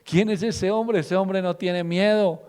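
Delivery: high, slow, impressed crowd voice; preacher voicing the crowd's amazement at David; amazed crowd. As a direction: gush like an awed crowd. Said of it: "Y ese público".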